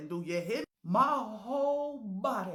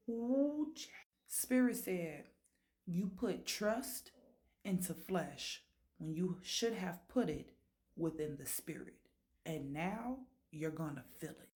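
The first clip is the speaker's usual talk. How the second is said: spirit voice; 4 semitones lower, 5 dB quieter than usual. Retold or imitated. Spirit voice judging woman.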